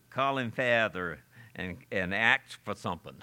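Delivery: lightly attempted old English brogue. Preacher redoing the old man's reply, in an Old English brogue. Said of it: "he says it in the Old English brogue".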